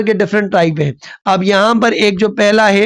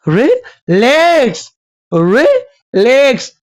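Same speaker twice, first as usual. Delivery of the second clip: short "रि", long high "लैक्स"; iambic stress; 4 semitones higher, much slower than usual. Shown as a demonstration. Teacher demonstrates iambic meter, unstressed then stressed. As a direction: slowly sound रिलैक्स, weight on the second syllable. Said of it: "पहले अनस्ट्रेस".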